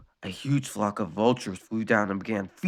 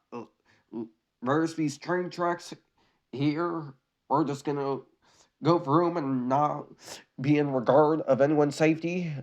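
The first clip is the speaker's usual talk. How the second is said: mock Cat Dog voice; 4 semitones higher than usual. Voicing Cat Dog reasoning.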